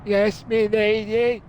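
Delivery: slow, put-on servant's bow in the voice; butler voice. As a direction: answer like a humble butler. Butler answering Lara.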